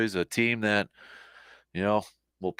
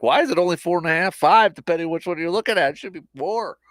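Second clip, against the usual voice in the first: mock indignation; 7 semitones higher, 5 dB louder than usual. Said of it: "we were kind of joking".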